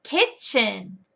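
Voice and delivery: Kitchen split into two clear beats; stretched, sing-song vocabulary word; modeling a word. Shown as a demonstration. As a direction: enunciate slowly for a learner to copy. Teacher modeling word slowly.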